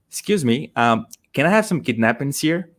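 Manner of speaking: polite request with "kidnappings" for napkins; mispronounced napkins. Retold or imitated. Learner asking the cashier for napkins, mispronounced. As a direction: ask politely, saying "kidnappings" in place of napkins. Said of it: "This is going to sound weird".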